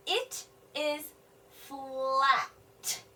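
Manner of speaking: very slow, word by word; slow sounding out. Shown as a demonstration. Teacher decoding the sentence for children, very slow. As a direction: sound out "flat" slowly. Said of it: "noticing something about the gift".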